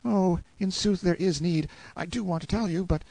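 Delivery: put-on high, troubled boy's voice; anxious reluctance. A narrator's reading. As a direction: want to confess but not dare. Frightened boy hesitates to confess.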